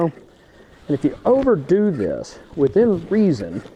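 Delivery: straining while talking; talking while pushing hard; effort grunt. Real, not acted. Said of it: "I'm kinda grunting into the microphone".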